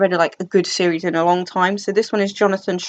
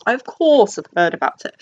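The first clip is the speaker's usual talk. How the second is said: a hammed-up lofty "of course" that rises on "course"; lightly mocking snobby tone; mock pretentious. Shown as a demonstration. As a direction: play it self-consciously grand, as if to show off. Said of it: "Does that sound pretentious?".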